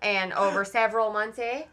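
lightly put-on Canadian accent; a touch of stage Canadian, "eh" on the end. Psychiatrist on the months of freedom, mild mock Canadian accent. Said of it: "I'm just trying to do the accent".

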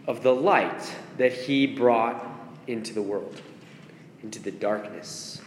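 hoarse, fading voice; losing voice, rasping softly; raspy whisper. Real, not acted. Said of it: "Sorry, I'm losing my voice".

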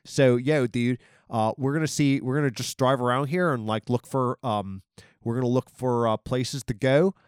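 put-on light Philly guy accent; a hint of a Philadelphia guy, yo-dude style. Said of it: "I almost turned him into a Philly guy".

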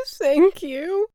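high, loud tearful whimper; squeezed-out storybook whimper. A narrator's reading. Crying cloud thanks the boy, whimpering. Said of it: "the cloud whimpered".

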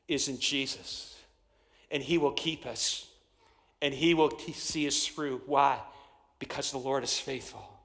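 low, soft, measured sermon close; hushed preaching. Real, not acted. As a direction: bring it down low and let pauses sit.

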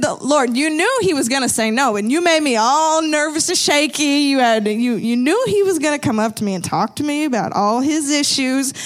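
mildly exasperated retold complaint; mock frustration. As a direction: playfully protest to God, a touch frustrated. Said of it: "I was so frustrated, you guys".

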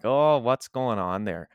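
slow Albertan, tight in the jaw; tight-jawed Alberta accent with a Minnesotan touch. Shown as a demonstration. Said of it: "a bit more tight in the jaw".

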